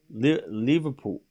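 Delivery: tentative, slow go at a Scouse Liverpool; Scouse accent. Shown as a demonstration. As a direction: try out the word in a Scouse accent. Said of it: "how do you say Liverpool in Scouse".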